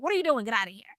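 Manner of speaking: lightly acted sibling shooing; annoyed older brother. Older brother to little brother touching his stuff, mock annoyed. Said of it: "little brother walked in".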